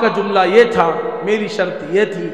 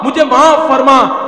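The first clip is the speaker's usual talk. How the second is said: slow plea; 5 semitones higher, 7 dB louder, slower than usual. Acted. Repeated plea, slowed.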